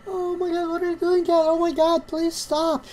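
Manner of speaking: real dismay; alarmed pleading. Real, not acted. Cat wrecking her setup live.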